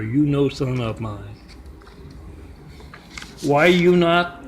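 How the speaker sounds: mock angry father. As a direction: scold the son for shaming the family in a put-on accent. Angry father berates his son.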